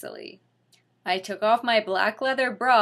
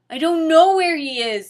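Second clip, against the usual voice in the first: high, loud desperate denial; pleading shout; 7 semitones higher, 8 dB louder than usual. Acted. Lupin crying out under threat of torture. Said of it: "said Lupin".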